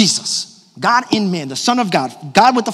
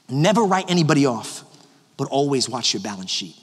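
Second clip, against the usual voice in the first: quiet maxim; 6 semitones lower, 6 dB quieter than usual. Shown as a demonstration. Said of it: "the next thing I'm gonna tell you is".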